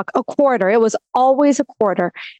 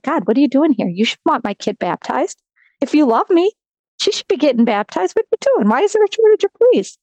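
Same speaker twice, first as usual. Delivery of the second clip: frustrated plea; 3 semitones higher than usual. Retold or imitated. Upset prayer to God.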